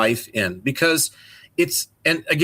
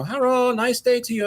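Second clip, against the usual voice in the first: lightly imitated shopkeeper greeting, pitched higher; a hint of a cheerful shop owner saying hello; friendly shopkeeper; 8 semitones higher than usual. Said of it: "the guy in the market says".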